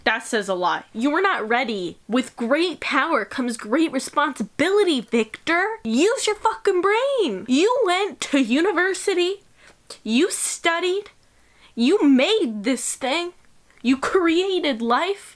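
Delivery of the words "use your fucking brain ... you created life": higher-pitched, drawn-out exasperated scolding; mock scolding. Reader tells off Victor for his creation, exasperated scolding. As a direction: stretch each accusation out, pitch raised.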